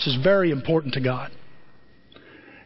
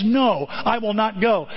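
higher, slowed emphatic no; emphatic refusal; 4 semitones higher, slower than usual. Retold or imitated. Son refusing his father's order to work, emphatic. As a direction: refuse slowly and firmly. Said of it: "One emphatically says".

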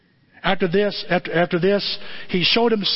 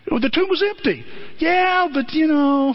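disciples chatting; 10 semitones higher than usual. Retold or imitated. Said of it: "The disciples are like".

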